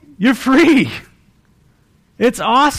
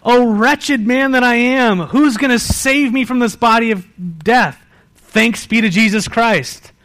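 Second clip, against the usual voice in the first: mock anguished cry; 4 semitones higher, 3 dB louder than usual. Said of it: "This is why Paul is crying out".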